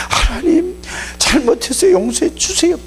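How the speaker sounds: high, pleading voice of a sinner praying; pleading prayer. Acted. A believer in trouble prays to God for forgiveness, high and pleading.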